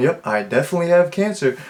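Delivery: play-acted nonchalant. Quoting how she delivers a line, in a mock-nonchalant upbeat tone. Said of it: "so like nonchalant and it's almost in like an upbeat tone".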